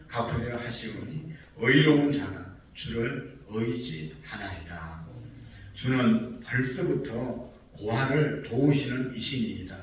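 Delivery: slow, measured psalm recitation; solemn scripture reading. Retold or imitated. Preacher reading the psalmist's prayer to God, solemn scripture reading. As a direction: read it slowly, weighing each phrase.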